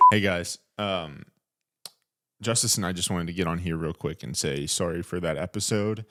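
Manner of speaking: drawn-out, deliberate sign-off; overly slow, earnest outro apology; slow and careful. Acted. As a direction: take it slow and solemn, like a formal apology. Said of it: "You're talking so slow".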